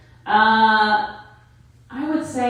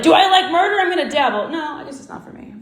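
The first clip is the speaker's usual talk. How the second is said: mock guy; 9 semitones higher, 4 dB louder, faster than usual. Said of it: "they're like".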